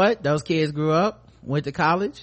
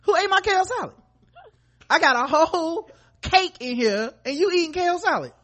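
yelling across the room; 13 semitones higher than usual. Pretend. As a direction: scream it at the whole house. Mock parent yelling.

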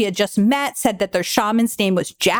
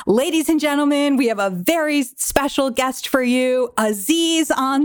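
lightly voiced MC announcing a surprise guest; a hint of stage announcer; comedy club host; 3 semitones higher than usual. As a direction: imitate a host building to the big name. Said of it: "the host comes up and he's like".

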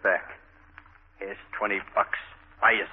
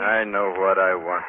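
slow, louder, firm insistence; insistent; 8 dB louder, slower than usual. Acted. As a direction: plant each word firmly. Marty insists she come along.

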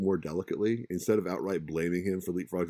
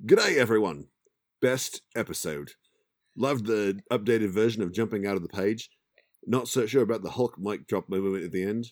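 put-on Australian accent; 3 semitones higher, 5 dB louder than usual. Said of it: "I'm still gonna include my horrible accent".

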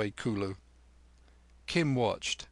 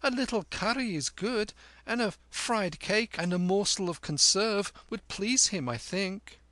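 put-on much higher, sweet-talking boy; coaxing boy Kim; 9 semitones higher than usual. A narrator's reading. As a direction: wheedle for extra food. Kim's boyish voice.

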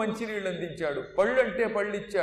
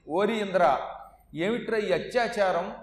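angry rebuke; 3 dB louder than usual. Retold or imitated. Mother catches Indra killing babies.

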